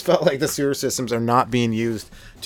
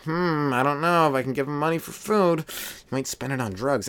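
mock wavering, slowing toward the end; hesitant pondering; 5 semitones higher than usual. Comic voices a passerby doubting a homeless guy, mock hesitant.

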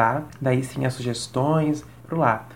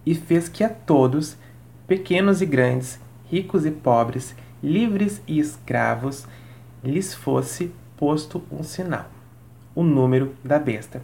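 slow, solemn Bible reading; solemn scripture reading. Pretend. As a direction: read it like holy scripture. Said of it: "vou fazer a leitura da palavra sagrada".

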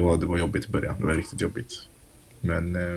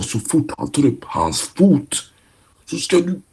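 higher-pitched, emphatic imitation of a yelling team leader; mock-yelled order to a teammate; retold yelling; 8 semitones higher than usual. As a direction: act out a player's furious order without full volume. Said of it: "Han skrek, du vet".

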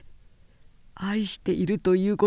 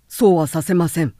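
forceful; 6 dB louder than usual. Acted. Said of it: "口ぶりが あまりに強かった".

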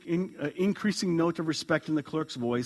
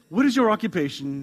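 probing; 4 semitones higher, 6 dB louder than usual. A narrator's reading. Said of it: "she probed".

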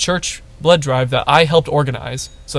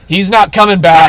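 deadpan Lauren; 5 semitones higher, 6 dB louder than usual. Retold or imitated. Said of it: "she says".

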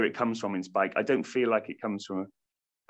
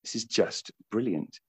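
hushed awe; 6 dB quieter, slower than usual. Retold or imitated. Retold awed inner thought.

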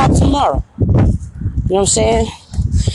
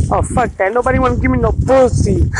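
a lightly put-on careless voice; lightly voiced dismissive killer; mocking the killer; 4 semitones higher than usual. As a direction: sneer in the killer's voice. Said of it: "he decided to just".

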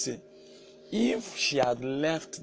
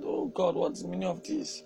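higher-pitched cry of a fed-up wife; retold exasperated plea to God; 4 semitones higher than usual. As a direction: voice a worn-out wife's complaint, pitched up. Acting out a tired, exasperated wife.

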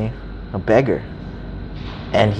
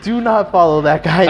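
urgent warning; 6 semitones higher than usual. Retold or imitated. Another shopkeeper warns him.

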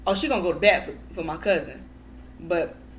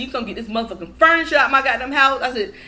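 retold going off; 7 dB louder than usual. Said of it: "I went off on".

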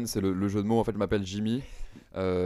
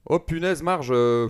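Homer Simpson; 5 semitones higher, slower than usual. Acted. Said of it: "Homer Simpson, c'est parti".

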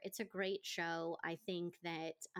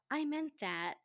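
mocking the actor.

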